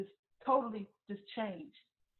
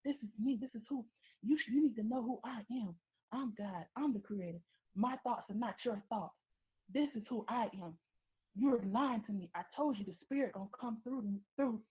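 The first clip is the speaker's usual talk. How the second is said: mildly raised, insistent retold rant; 2 semitones higher than usual. Boyfriend declaring himself God and accusing her, retold ranting. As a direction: imitate someone talking crazy, only a little louder. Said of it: "still talking crazy loud".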